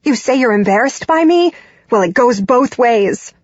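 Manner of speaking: high-pitched, angry tirade; yelling. A narrator's reading. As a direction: keep hurling accusations at your mother. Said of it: "I continue to yell as I say".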